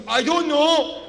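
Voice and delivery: high, loud mock-panicked outburst; freaked-out friend. Friend answering comedian about the police, loud mock panic. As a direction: blurt it out in comic distress. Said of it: "my friend freaks out".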